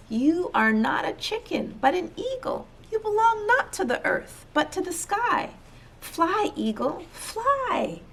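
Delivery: high, rising call to the bird. Acted. Man urging eagle toward sky, high earnest call.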